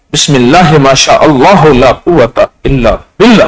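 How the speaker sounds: each word of بسم اللہ ما شاء اللہ drawn out slowly; measured prayerful recitation. Shown as a demonstration. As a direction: recite it slowly and deliberately, rising at the end. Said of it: "نظروں کو دیکھ کر تو کہتا".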